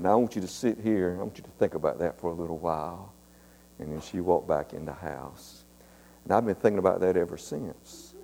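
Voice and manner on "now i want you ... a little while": quiet instruction. Retold or imitated. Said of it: "And then she said".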